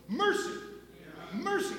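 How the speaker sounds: Mercy rising high each time; stress on mercy. Acted. Pastor exclaiming mercy to the church, rising stress. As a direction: lift Mercy up in wonder. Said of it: "That's what it is".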